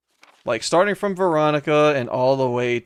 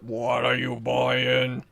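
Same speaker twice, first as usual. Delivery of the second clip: robot voice; much slower than usual. Pretend. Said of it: "have a robotic sentient voice just say that".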